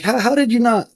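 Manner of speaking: high-pitched, stammered disbelief; incredulous, pitched well up; amazed questioning. Retold or imitated. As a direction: ask in retold astonishment, voice jumping up. Retelling amazement at boss's restraint.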